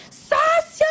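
high, loud hailing shout; mock-boisterous shouted greeting, drawn high; calling out. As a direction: holler it like greeting buddies across a bar. Calling out to friends on arrival.

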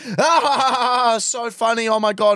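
high fake laugh on the phone; phone laughter. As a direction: cackle along with a mate. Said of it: "he's like".

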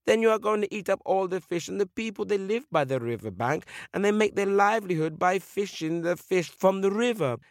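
high, insistent eagle voice; remonstrating eagle. Acted. Eagle refuses the fish's plea, high insistent voice. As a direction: lay out the objection firmly.

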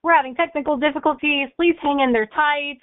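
mock apologetic park announcement over a speaker; intercom announcer. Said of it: "we just hear on the intercom".

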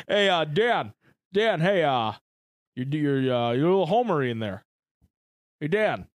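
lightly voiced studio director; halting, tentative correction in a put-on voice. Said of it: "I don't know why I did that voice for that".

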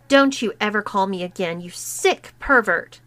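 understated contempt, quickened, pointing at him; contemptuous. Acted. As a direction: spit it at him with mild scorn. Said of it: "dripping with contempt".

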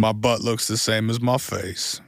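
slow, strange worm voice; squishy wobbly worm. Pretend. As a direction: talk like a dopey squishy worm. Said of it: "that your worm impression?".

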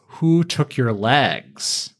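slow, heavy questioning; Savage asking. Retold or imitated. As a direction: drag out the question, menacing. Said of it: "But then he says".

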